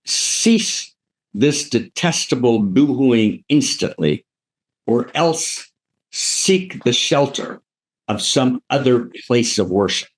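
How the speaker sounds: slow, measured theatrical reprimand; revolted Higgins. Retold or imitated. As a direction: read it out as a haughty, spaced-out command. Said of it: "you know, revolted".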